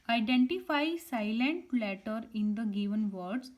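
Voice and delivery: reading each word out slowly and clearly; slow dictation. Shown as a demonstration. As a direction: spell it out for pupils, unhurried. Teacher reads worksheet instruction.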